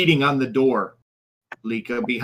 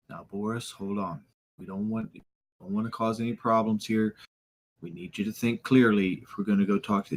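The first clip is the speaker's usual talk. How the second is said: softer, placating voice; soft calming plea; 3 semitones lower, 5 dB quieter than usual. Acted. Piltrup trying to calm Boris, much softer. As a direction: talk him down gently.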